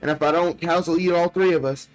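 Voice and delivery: put-on little girl voice. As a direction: read it like a frightened child's diary. Reads little girl's diary aloud.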